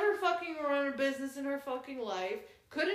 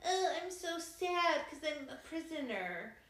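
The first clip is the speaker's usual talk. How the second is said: slow mock-sad sigh; mock whiny; 2 semitones higher, slower than usual. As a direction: drag it out like a sulky heroine. Mocking the heroine's whining.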